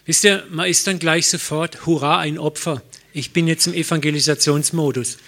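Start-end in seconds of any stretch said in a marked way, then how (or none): 1.9-5.2 übereifrig und lauter, sich selbst parodierend; mock begeistert. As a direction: mach den übereifrigen Missionar nach. Spottet über Evangelisationseifer. (gespielt übereifriger Missionar)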